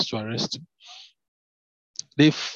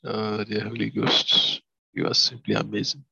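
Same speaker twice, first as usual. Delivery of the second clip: adoring praise. Real, not acted. Praising God aside, soft and slow.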